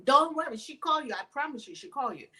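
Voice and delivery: imitated Omani accent, reassuring. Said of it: "in his accent from Oman".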